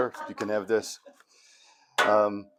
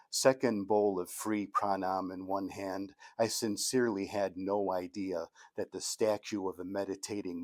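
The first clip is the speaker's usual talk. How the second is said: measured comic-poem recital; poetry reading. Acted. Poet reading an ashram poem to an audience, poetry reading. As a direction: tell the cautionary tale in measured verse phrases. Reads own poem aloud.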